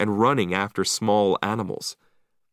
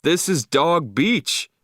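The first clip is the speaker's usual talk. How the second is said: indignant; 7 semitones higher, 4 dB louder, slower than usual. Acted. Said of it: "he shouted".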